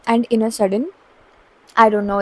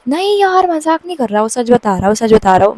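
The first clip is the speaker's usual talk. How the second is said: imitated earnest protest; 3 dB louder than usual. Friend insists to the teller it's no joke, mock protest. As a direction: mimic a friend protesting, pitched up at first.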